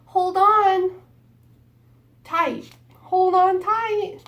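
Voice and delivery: put-on high and loud, urging the kids to hang on; excited call. Danny calling to the children.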